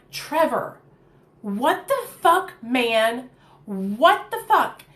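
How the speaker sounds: retold shocked outburst at him; upset confrontation. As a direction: demand an answer from Trevor, shocked. Confronting Trevor over cocaine.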